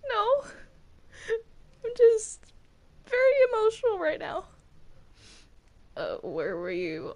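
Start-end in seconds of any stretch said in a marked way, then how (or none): 0.1-4.4 1 mock emotional denial. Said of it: "Are you crying?".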